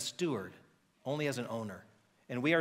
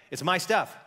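loud, stress on my stuff; loud, possessive claim; possessive boast; 3 semitones higher, 5 dB louder than usual. Acted. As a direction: bark it like a greedy landowner. Nabal claims his goods.

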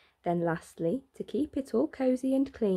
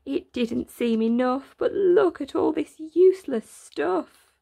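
rising, louder lament; magpie cries out; 4 semitones higher, 4 dB louder than usual. Acted. Magpie crying out over the useless stuff, loud. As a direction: cry out in dismay. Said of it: "and cried".

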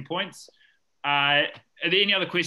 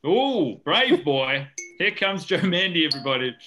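game show host; 3 semitones higher, 3 dB louder than usual. Acted. Host introducing contestant.

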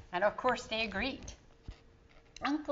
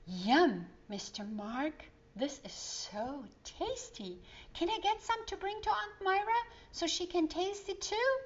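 put-on delighted child; 8 semitones higher than usual. Child tasting treats.

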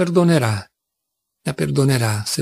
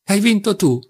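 higher, lightly laughing triumphant call; brazen laughing shout; 7 semitones higher than usual. A narrator's reading. Rakitin taunting Grushenka, higher mock-triumphant laughing call. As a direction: crow the win out with a hint of a laugh. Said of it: "gridò ridendo spudoratamente".

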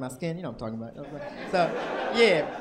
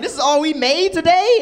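indignant robber; 11 semitones higher, 14 dB louder than usual. Retold or imitated. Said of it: "He's like".

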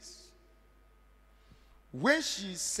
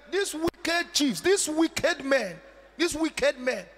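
scornful denunciation; 7 semitones higher, 5 dB louder, slower than usual. Acted. Preacher denouncing chiefs.

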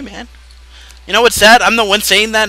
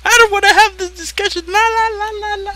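la la not listening. Acted. Drowning out the topic.

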